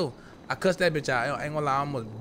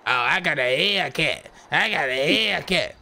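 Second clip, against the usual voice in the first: slow, smug put-on voice; mocking a guy bragging about his Hellcat; mocking brag; slower than usual. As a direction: imitate him showing off, slowly.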